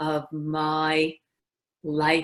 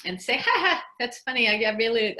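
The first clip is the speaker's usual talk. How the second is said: higher, broad Brooklyn meeting talk; Brooklyn accent; 6 semitones higher, 4 dB louder than usual. Shown as a demonstration. Acting up in a meeting, broad Brooklyn accent. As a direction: play up Brooklyn with a mock ha-ha. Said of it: "go into a meeting and talk like this".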